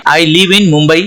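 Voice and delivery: very slow, word by word, like dictation; slow example reading. Shown as a demonstration. Teacher reading the example sentence to students, very slow. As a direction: read it out slowly so students follow.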